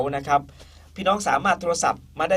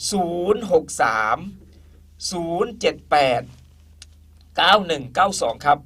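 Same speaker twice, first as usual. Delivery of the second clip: slow dictation. Real, not acted. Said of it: "ผมจะพูดช้าๆนะครับ".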